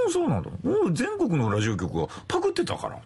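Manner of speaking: Terumi Yoshida impression. Host imitating the rival DJ's casual reply, fading to his own voice. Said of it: "全然似てねえ".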